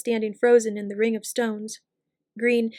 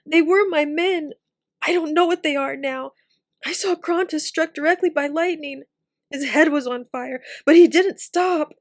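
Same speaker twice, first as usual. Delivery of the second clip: tearful; 5 semitones higher, 5 dB louder than usual. A narrator's reading. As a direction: grieve your men through tears. Tim still sobbing after.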